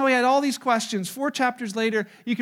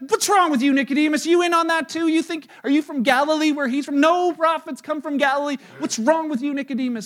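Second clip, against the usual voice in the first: louder, higher outburst at Nicodemus; angry rebuke; 6 semitones higher, 5 dB louder than usual. Retold or imitated. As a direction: scold him in disbelief. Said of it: "I'm like".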